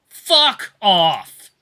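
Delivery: an explosive loud shout. A narrator's reading. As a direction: hurl it at him with everything. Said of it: "I shout out".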